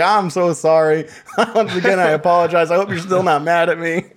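over-apologizing through laughter; mock profuse apology. Teller imitating an online pest, laughing mock apology. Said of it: "he was just like".

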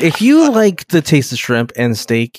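hammed-up restaurant commercial announcer; mock ad read. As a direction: sell it like a TV ad for Red Lobster. Mock Red Lobster ad read.

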